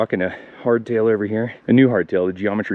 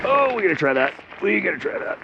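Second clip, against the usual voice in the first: excited; 9 semitones higher than usual. Real, not acted. Excited seeing a log.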